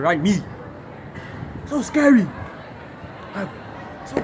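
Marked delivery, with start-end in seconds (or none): 1.7-2.3 mock scared. Fear of the big lion.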